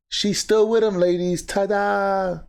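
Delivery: high, sing-out ta-da announcement; mock triumphant reveal.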